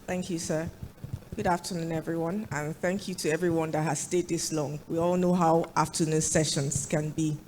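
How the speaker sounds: hoarse from a flu; croaky voice. Real, not acted. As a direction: speak through a croaky throat. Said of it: "forgive my croaky voice".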